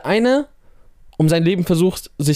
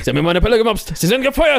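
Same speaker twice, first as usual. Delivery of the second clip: yelling newspaper boss, pitch jumps high; angry boss; 6 semitones higher, faster than usual. Retold or imitated. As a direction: fire him like a furious editor. Imitating J. Jonah Jameson firing. (wütender Chef)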